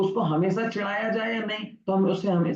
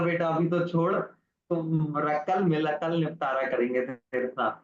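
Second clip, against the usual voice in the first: hint of a king holding back his anger; king's veiled threat; 3 semitones lower than usual. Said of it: "अब राजा ने कहा".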